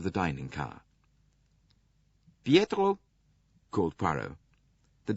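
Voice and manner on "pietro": much higher, louder call. Acted. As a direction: call across the car. Poirot calling the attendant.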